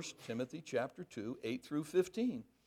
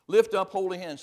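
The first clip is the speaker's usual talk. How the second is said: 1 exhorting; 9 dB louder than usual. Real, not acted. Preacher exhorting men.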